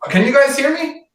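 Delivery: hallway echo. Real, not acted. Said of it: "you sound like you were taking a shit in a public bathroom".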